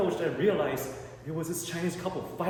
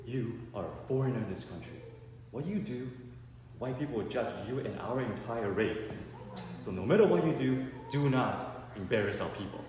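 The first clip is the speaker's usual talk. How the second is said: solemn dad; 3 semitones lower than usual. Retold or imitated. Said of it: "He goes".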